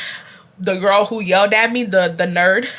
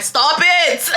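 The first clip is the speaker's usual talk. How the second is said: teacher's stern stop; 7 semitones higher than usual. Retold or imitated. Teacher voiced in retold story.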